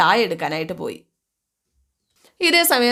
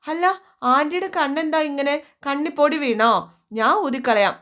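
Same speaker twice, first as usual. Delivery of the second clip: higher, lightly voiced little girl; child voice; 4 semitones higher than usual. Little niece greeting her crying aunt, higher childlike voice. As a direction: chirp it like an eager small child. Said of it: "കൊച്ചു ഓടി വന്നു ആൻറ്റീന്ന് വിളിച്ചുകൊണ്ട്".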